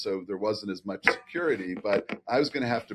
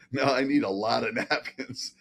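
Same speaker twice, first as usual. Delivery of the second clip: laughing while quoting; 3 semitones higher than usual. Retold or imitated.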